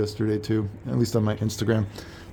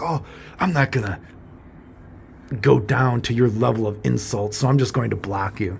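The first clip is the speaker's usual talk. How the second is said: mocking the other person. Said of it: "Being like".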